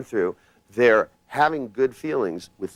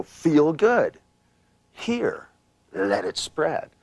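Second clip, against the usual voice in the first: command; 8 semitones higher, much slower than usual. Shown as a demonstration. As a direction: give it as a firm command. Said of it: "give a command".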